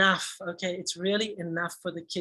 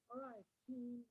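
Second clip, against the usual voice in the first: teacher voice. Shown as a demonstration. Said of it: "Then I'm gonna say".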